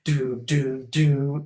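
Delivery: loud-ended "doo" sound effect; mock game-show noises; imitated show jingle. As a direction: sound out the reveal noise note by note. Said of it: "like that".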